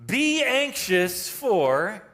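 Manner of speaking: "Be anxious for" stretched very slowly, ending on a rise; a slow, questioning reading that leaves the blank hanging; stressed, slow. Shown as a demonstration. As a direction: hold "for" open, as if waiting for the next word. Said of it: "a positive".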